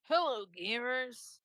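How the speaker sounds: slow drawn-out YouTuber greeting; imitating MatPat. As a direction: greet gamers like a YouTuber, slowly. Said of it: "Just that over and over again".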